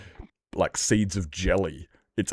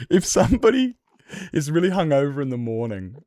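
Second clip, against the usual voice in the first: light mock British accent, pitched up at the start; imitating British accent; 3 semitones higher than usual. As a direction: retell the guy's rant in a British accent. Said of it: "he had a, like, a pure British accent".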